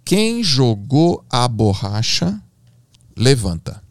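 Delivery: slow, drawn-out question to the class; measured, objective command; super matter-of-fact. Retold or imitated. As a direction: address the class slowly, straight to the point. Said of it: "Vou ser super objetivo".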